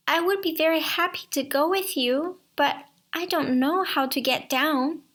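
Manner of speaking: eager, lightly voiced young girl; Rapunzel voice. Rapunzel answering the prince, a lightly voiced eager girl. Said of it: "But she said".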